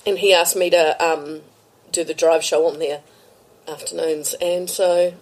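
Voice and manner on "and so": talking through a burp; words caught by a small burp. Real, not acted. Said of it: "sorry, I'm burping".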